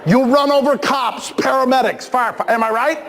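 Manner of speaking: gleefully listing the mayhem; mock excited. Real, not acted. Mocking violent video game.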